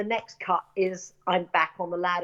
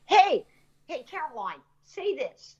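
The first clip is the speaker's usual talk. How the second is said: calling out over the camera; 6 semitones higher than usual. Retold or imitated. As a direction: shout a line to an actor mid-scene. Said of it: "he'd call out over the top of the camera".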